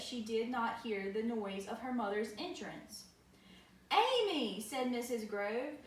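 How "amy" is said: high, loud call of a name. Acted. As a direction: call her name sharply. Mother calling startled child.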